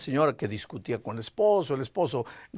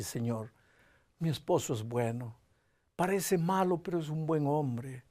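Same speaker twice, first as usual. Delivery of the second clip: soft prayer; 5 dB quieter than usual. Retold or imitated. Wife prays alone for her husband, hushed and tender. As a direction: pray gently for him.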